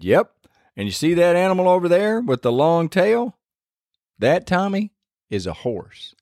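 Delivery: put-on high, patient father explaining to a small boy; patient dad teaching son. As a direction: point it out like a proud dad.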